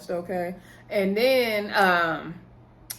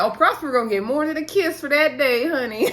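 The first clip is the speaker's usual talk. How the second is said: teasing laugh; 5 semitones higher, 4 dB louder than usual. Real, not acted. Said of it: "I said".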